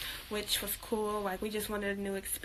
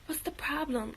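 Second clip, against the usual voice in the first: mock innocent mom; 4 semitones higher than usual. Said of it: "trying to, like, gaslight me".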